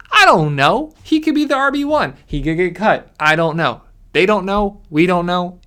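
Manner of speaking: loud, worked-up rant; exasperated fantasy rant; passionate rant. Real, not acted. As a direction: hammer home that nobody knows. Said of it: "I'm gonna stop ranting now".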